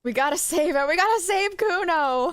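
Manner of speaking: loud, high-pitched rallying cry; urgent excitement. Real, not acted. Player determined to save Kuno, urgent excited cry.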